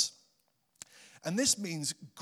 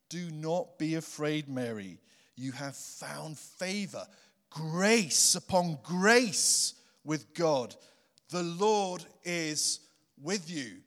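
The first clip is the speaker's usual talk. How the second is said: gentle angel; slower than usual. Acted. Angel's words reread softly.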